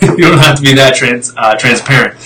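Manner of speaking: a short real laugh breaking through the words. Real, not acted. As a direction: laugh it out as you stumble on the word. Laughs mid-sentence at own phrasing.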